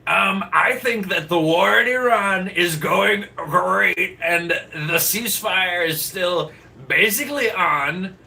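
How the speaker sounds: high, loud, drawn-out joke chicken voice; mock chicken, slow and very loud; chicken impression. Botched chicken impression on request, high and loud. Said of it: "Do my best chicken impression".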